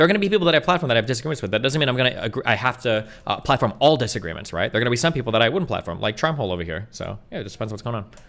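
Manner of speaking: hurried, rapid run-on talk, words tumbling out. Explaining whom you'd platform as the other person asks why you're talking fast. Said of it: "why are you talking so fast?".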